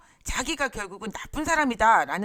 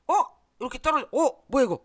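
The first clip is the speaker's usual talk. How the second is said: imitating a partner's sudden irritation, a bit louder and higher; indignant mock reaction; mock angry outburst; 5 semitones higher, 5 dB louder, faster than usual. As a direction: act out a resentful jab, not a full yell. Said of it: "이렇게 하면은 화가 날 거 아니에요".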